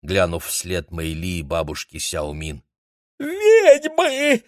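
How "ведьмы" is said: очень высокий, громкий вопль ужаса; завизжи от страха; испуганный визг. A narrator's reading. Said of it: "ещё сильнее перепугался Линь". (Линь в ужасе визжит)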